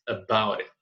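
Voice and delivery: "about it" run together with a tapped T; linked "about it". Shown as a demonstration. Teacher showing how to join "about it", linked as one word. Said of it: "Podemos juntar o about com it".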